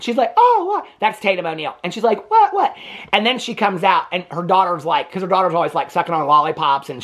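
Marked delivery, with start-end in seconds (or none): 0.4-0.9 high, louder mock shock; shocked gasp. Tatum O'Neal's role, shocked outburst. 2.3-2.7 high, louder mock disbelief; shocked retort. Daughter's role, shocked retort.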